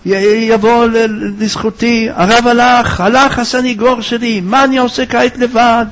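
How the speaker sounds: high-pitched mourner's lament, stammering midway; acted despairing wail at a funeral; anguished wailing cries. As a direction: cry out as if bereft of your protector. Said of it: "זה צעק צעקות איומות".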